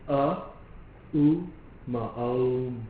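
A, U, Ma spaced, then blended into Om; teacher demonstrating how the syllables merge into Om; syllables joined into Om. Shown as a demonstration. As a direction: build Om from its three sounds. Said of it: "The three syllables of Om".

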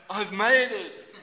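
loud, high, slow cry of relief; drawn-out triumphant shout; mock triumph. Worker clocking on in time, mock triumph.

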